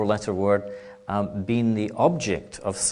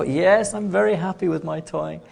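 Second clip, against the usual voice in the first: put-on eager small child; 7 semitones higher than usual. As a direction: play a small child, keen to please, much higher. Child answers grown-up eagerly.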